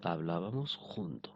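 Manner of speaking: hablábamos junto said slowly and carefully, words drawn out; slow Spanish model. Shown as a demonstration. Teacher reading the Spanish example to students, slowly. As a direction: stretch hablábamos junto so learners can follow. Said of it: "todos los amigos".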